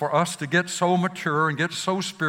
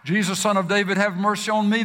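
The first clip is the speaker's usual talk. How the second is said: crying out; 3 semitones higher, faster than usual. Retold or imitated. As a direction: call out to Jesus over the crowd. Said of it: "even the cry".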